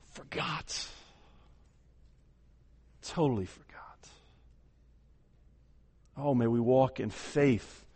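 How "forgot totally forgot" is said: breathy hushed whisper of one word. Acted. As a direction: let the word fall into a whisper. Hushed drop after preaching climax.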